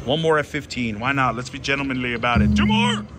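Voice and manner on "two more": excited shriek to the machine; high-pitched pleading squeal. Real, not acted. Begging the slot machine.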